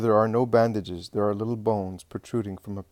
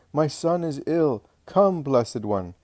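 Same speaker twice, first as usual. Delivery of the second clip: pleading; 5 semitones higher, 4 dB louder, slower than usual. A narrator's reading. Mother begging Jesus for help.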